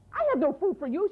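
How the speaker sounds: put-on greedy girl refusing food to the boy; haughty refusal. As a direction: refuse him with disdain.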